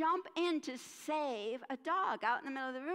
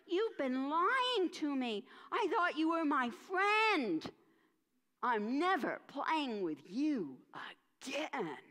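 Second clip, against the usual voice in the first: louder, slow, betrayed friend; hurt accusation; 2 semitones higher, 4 dB louder than usual. Acted. Fido yelling at Spot for lying to him, hurt and loud. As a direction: build to a shout on "friend".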